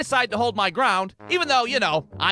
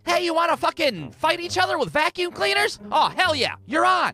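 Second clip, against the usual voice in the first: hyped-up dare; 9 semitones higher than usual. Acted. Roommates hyping a vacuum fight.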